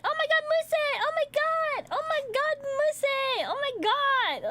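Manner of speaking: very high, squealing pet voice; excited dog. Retold or imitated. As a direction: squeal like a dog overjoyed to see its owner. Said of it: "he's so excited".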